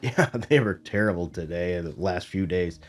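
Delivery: muffled, stuffy from allergies. Real, not acted. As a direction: talk through a muffled, allergy-blocked voice. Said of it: "if I sound a little muffled and things, it's 'cause my allergies are kicking my butt".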